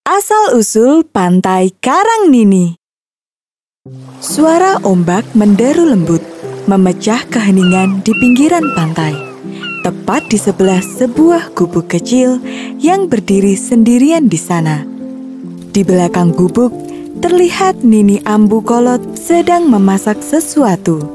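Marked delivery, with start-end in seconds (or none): none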